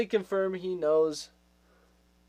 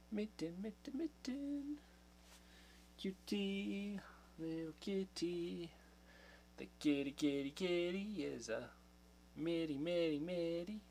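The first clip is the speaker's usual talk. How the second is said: cooing to the cat; 2 semitones higher, 11 dB quieter than usual. Real, not acted. Owner coos softly at her cat Mitten. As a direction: coo to the kitten tenderly.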